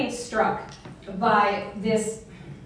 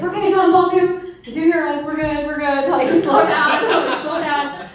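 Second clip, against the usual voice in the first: laughing; 6 semitones higher, 7 dB louder than usual. Retold or imitated. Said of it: "we just were laughing so hard".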